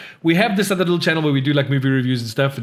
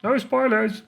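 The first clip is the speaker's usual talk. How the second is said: mock alarmed reading; 11 semitones higher, slower than usual. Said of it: "Foxglove says".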